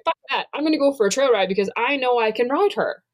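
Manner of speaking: high, bold self-talk; defiant. Retold or imitated. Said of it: "And now I'm like".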